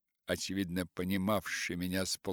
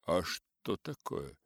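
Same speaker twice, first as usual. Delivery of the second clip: cheerful curiosity; 4 semitones lower than usual. Acted. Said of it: "с весёлым любопытством".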